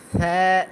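SA said softly at the start, with a lisping th-like hiss. Shown as a demonstration. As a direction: make the first sound of সা soft, then hold the vowel. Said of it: "সা নরম করো". (সা নরম উচ্চারণে)

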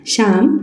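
mild call with a rising end. A narrator's reading. Mother calls her sulking son, mild calling out. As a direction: call the name gently upward, without raising volume. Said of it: "अशी आईनं हाक मारली".

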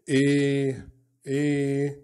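A said like the letter name "اي"; long A letter name. Shown as a demonstration. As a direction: say the letter A as in the alphabet. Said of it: "انطق الحروف تقول لي إيه؟". (نطق حرف A الطويل زي اسمه)

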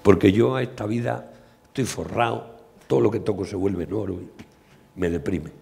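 put-on Midas with a light Andalusian accent. King Midas complains to Sileno, lightly Andalusian accent. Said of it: "Midas con acento andaluz a Sileno".

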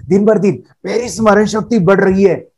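said with a smile; cheerful smiling affirmation. Shown as a demonstration. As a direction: smile as you say it. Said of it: "चेहरे पे smile चाहिए।".

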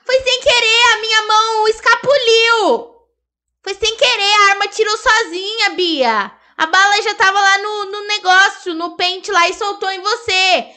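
mock pleading. Begging Bia's forgiveness after shooting her, hammed-up pleading. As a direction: beg like a guilty kid.

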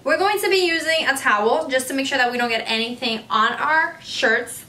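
ordinary delivery

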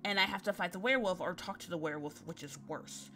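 a nervous spiralling ramble; anxious girl voice. Acted. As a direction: worry yourself into a panic.

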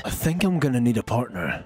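deep voice. Acted. Low aside to self.

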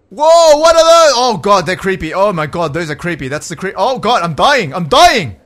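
startled shout into rattled babble; alarmed panic. Real, not acted. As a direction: panic out loud as you get attacked. Creepy enemies attack and kill player.

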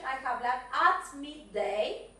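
"I have lunch at midday." slow and careful; slow model sentence. Shown as a demonstration. Teacher modelling pronunciation slowly for pupils. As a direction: spell it out slowly for the class.

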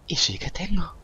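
squeaky indignant voice. Pretend. Insisting again he has friends.

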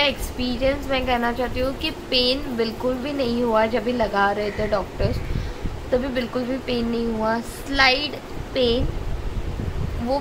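speaking around metal brackets; talking with new braces. Real, not acted. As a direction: braces on the teeth while talking. Seen 4: Metal brackets visible on her teeth during and around the words.

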